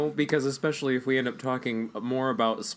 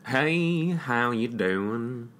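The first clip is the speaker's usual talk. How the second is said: country tone; 2 semitones lower, much slower than usual. Pretend. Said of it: "Is that a country tone enough for you".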